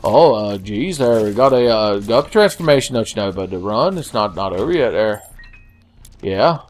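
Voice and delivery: put-on lightly folksy Northern accent; hesitant, rambling mock Northern talk; a hint of hokey Northern accent. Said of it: "I gotta remember the Northern Line away".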